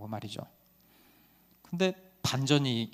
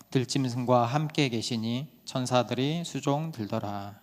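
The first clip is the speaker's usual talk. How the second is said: scripture reading. Acted. Reads scripture aloud.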